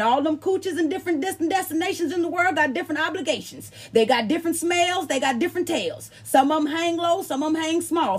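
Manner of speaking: a hint of a mother laying down the law; mama's voice. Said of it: "She said, Now listen".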